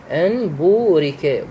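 slow بورك with the long u held two counts; slow tajweed بورك; recited with the long vowel. Shown as a demonstration. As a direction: hold the و in بورك for two beats. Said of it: "طبعًا مقدار المد بورك بمقدار حركتين".

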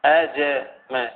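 slow, separated "aja-ma" for أجمة; fatha on the jim. Shown as a demonstration. Teacher repeating the correct vowelling, أجمة slowly as aja-ma. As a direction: spell out أجمة slowly with an open a after jim. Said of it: "بالتحريك يعني بالفتح".

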